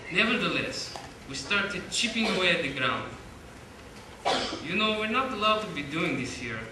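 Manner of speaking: put-on light amateur Russian accent throughout. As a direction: keep a mild Russian accent while reading. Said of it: "I'll be reading this whole thing in a Russian accent".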